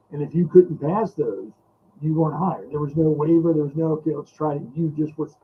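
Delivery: underwater-sounding, muffled mic. Real, not acted. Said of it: "you sound like you're underwater".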